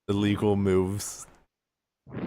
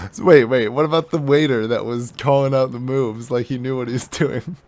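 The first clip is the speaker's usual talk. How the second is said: loud, insistent challenge; exasperated, forceful questioning; incredulous protest; 2 semitones higher, 7 dB louder than usual. Acted. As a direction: jump in loudly with an objection. Player protests in the argument.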